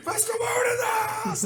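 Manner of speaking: very high put-on voice; hammed-up announcement. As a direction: boast like a showman making an entrance. Mister Moon announcing himself.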